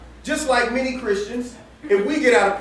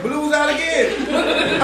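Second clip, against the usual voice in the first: laughing; 5 semitones higher, much slower than usual. Real, not acted. Dog escaped yet again.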